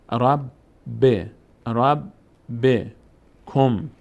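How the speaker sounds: "رب، ب، کم" in separate syllables with pauses; teacher's split demo of doubled ب; doubled consonant. Shown as a demonstration. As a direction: sound out "رب", then "ب" with its short e vowel. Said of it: "باید دو بار بخونیم".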